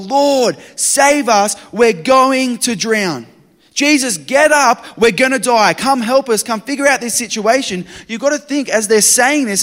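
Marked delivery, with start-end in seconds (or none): 0.0-3.3 loud, high desperate cry for help; panicked yell. Acted. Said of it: "they yell". 3.7-7.8 loud, high begging over the storm; frantic pleading shout. Acted.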